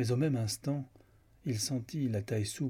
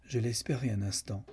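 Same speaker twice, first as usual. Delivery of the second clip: understated, cool and even reply; cold. Acted. Lucan answering whether he thought her dead, coldly. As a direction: answer coolly, giving nothing away. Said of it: "dit froidement Lucan".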